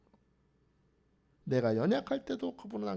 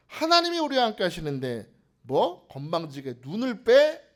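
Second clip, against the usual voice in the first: acted righteous outrage, building louder; indignant anger; 6 dB louder than usual. Saul outraged at an enemy insulting God's people, indignant. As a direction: build to an affronted challenge. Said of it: "화가 막 나는 거예요".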